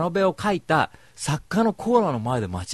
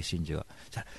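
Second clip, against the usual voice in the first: ordinary talk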